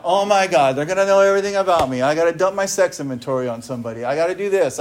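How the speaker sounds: fast, loud mock panic at the dread of step four; panicked inner voice. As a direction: rattle it off like a newcomer freaking out. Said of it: "I'm freaking out".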